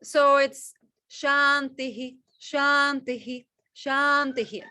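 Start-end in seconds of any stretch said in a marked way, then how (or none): 1.1-4.6 "Shantihi" said slowly with a clear final "hi" each time; spelled-out Sanskrit. Shown as a demonstration. Teacher showing the student the written words, slowly. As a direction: give every "Shantihi" three full syllables, ending on a breathy "hi". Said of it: "That's actually the words".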